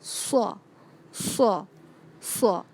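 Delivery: صا said with a pressed, thicker s; teacher drilling a pressed صا; pressed saad sound. Shown as a demonstration. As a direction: squeeze out صا from a tight mouth. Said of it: "اس آواز کو دبائیں گے".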